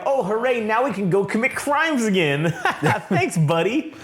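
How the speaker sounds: high, sarcastic gleeful cheering with a laugh; mock cheer. Criminals mocking the hero's praise, mock high cheer. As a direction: play a gleeful criminal celebrating, tongue in cheek. Criminals celebrating Daredevil as hero.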